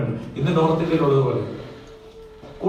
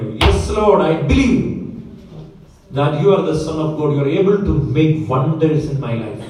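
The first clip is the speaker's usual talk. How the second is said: fervent confession; 5 dB louder, much slower than usual. Acted. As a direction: cry out her faith. Martha's reply repeated in fervour.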